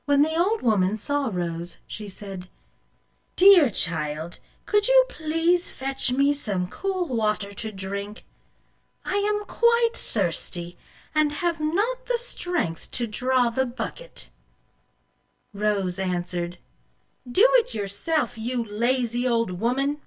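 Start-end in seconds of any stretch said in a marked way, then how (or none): 3.4-14.3 lightly voiced frail old woman, pleading; a hint of a tired old woman begging for water. Old woman asking Rose for water, mildly frail. 17.4-20.0 sassy higher voice, talking back; a hint of a bratty girl snapping; rude retort. Rose refusing the old woman, rude and sassy.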